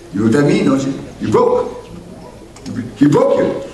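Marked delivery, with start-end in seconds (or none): 1.3-3.6 exclaimed. Acted. Preacher exclaiming.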